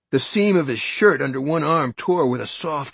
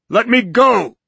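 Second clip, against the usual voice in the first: high, loud, frantic cry; a shrill cry to be released; panicked shout; 10 semitones higher, 9 dB louder than usual. Acted. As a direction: struggle free, frantic. Norton struggling.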